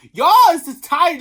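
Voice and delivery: loud, high jab at the critics; loud rant. Real, not acted. Vlogger scolding critics, loud and exasperated. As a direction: fling it at them.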